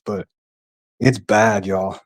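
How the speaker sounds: breathless, catching breath; winded after a workout. Real, not acted. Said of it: "Sorry, I'm catching my breath".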